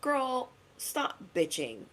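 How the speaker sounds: slow, high, soft scold to herself; drawn-out gentle telling-off; slow teasing self rebuke. Acted. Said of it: "it always makes me feel like".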